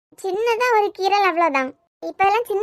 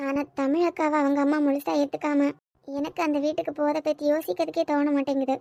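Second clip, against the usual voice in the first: softer, hesitant confiding; quiet worry; 3 semitones lower, 5 dB quieter than usual. Acted. Kani confiding her fear to her friend, softly worried. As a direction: murmur your doubts, barely above a hush.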